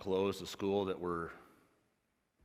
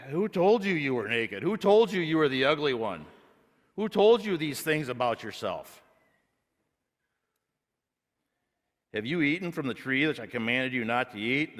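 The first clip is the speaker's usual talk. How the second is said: higher and louder, probing questions; preacher voicing God's questions to Adam, raised and pressing; 5 semitones higher, 5 dB louder than usual. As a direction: call out each question as God. Preacher voices God questioning.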